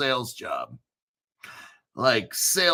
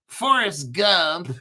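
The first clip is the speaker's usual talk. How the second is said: slow mock Southern drawl; Forrest Gump; 2 semitones higher, much slower than usual. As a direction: drag it out in a hammed-up Tennessee accent. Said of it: "why do you talk like that".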